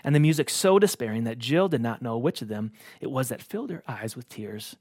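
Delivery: measured storybook reading; a preacher reading a story to the congregation; story narration. A narrator's reading. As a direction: read the tale aloud, gently and evenly. Reads Narnia story aloud.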